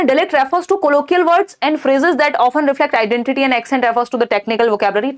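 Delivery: slow, deliberate question read-out. Acted. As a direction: read each word out carefully for the class. Reads an answer option.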